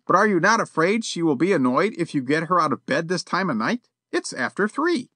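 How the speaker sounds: put-on a proper elderly gentleman, politely stern; prim old gentleman. A narrator's reading. Yollop voiced.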